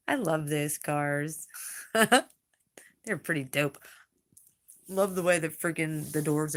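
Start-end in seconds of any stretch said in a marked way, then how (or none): 0.1-3.8 laughing whisper. Real, not acted. Gushing about the DeLorean.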